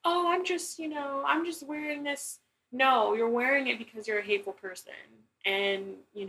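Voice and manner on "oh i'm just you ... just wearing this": mock innocent hat wearer. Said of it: "you're like".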